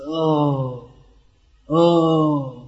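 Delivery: soft, drawn-out mock-tearful moans; put-on sentimental sighs; mock crying. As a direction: imitate people weeping at a film. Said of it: "Everyone's crying at the movie".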